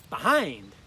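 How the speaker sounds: "Behind" stressed on its second syllable, be-HIND. Shown as a demonstration. Teacher models for learners, "Behind" stressed on "hind". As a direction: punch the "hind" in "Behind", then fall. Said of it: "Accents on the second syllable".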